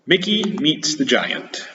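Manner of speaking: slow storybook title; title read slowly. Shown as a demonstration. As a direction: announce the title softly. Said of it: "Okay, here we go".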